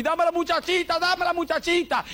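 put-on childish nagging plea, voice pushed up high; mock whining demand. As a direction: ham up a spoiled believer begging God. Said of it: "que dice".

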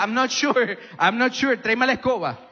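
nervous father. Retold or imitated.

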